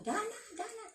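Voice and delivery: high mock call of the boss; sigaw ng amo. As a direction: call her name like the shrill employer. Amo calling her name, shouting. (ginagayang sigaw ng amo)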